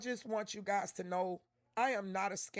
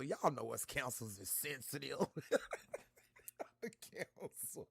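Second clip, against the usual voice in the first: tears of joy; 7 semitones lower, 7 dB quieter than usual. Real, not acted. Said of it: "It's just tears of joy".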